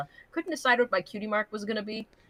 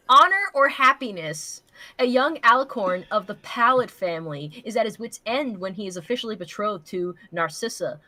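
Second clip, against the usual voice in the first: slightly raised blurb-reading voice; mildly dramatic summary read; reading a blurb aloud. Acted. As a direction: read it like a book jacket. Reads fanfic summary aloud.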